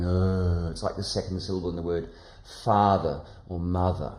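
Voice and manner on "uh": lazy uh. Shown as a demonstration. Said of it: "I'm just going".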